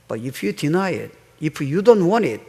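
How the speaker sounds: each word stretched out slowly; slow right down to drive it home; slow, deliberate warning to the congregation; very slow emphasis. Real, not acted. Slow English emphasis in sermon.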